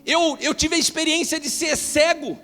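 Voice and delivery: high, loud, driving sermon voice; fervent preaching. Acted. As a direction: preach it with rising fire to the congregation. Preacher builds to full force.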